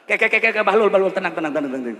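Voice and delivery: ngomong bari seuri ngakak, tarik; raja seuri. Acted. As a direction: seuri bari ngalelemu Bahlul. King laughs while calming. (raja seuri bari nenangkeun Bahlul)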